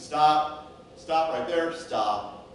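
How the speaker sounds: firm, short calls to stop; acted halting command. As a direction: halt someone mid-step, then ease off. Shepherd halts the limping sheep.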